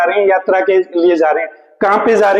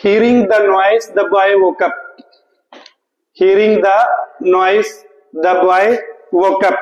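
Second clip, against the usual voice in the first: very slow dictation pace; slow sentence read; much slower than usual. Shown as a demonstration. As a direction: read each word slowly for the class. Reading sentence slowly. (बहुत धीमी गति से वाक्य पढ़ना)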